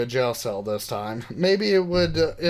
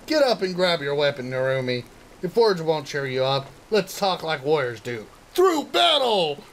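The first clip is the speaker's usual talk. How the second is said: heroic challenge. Acted. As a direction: call her to battle like a manga hero.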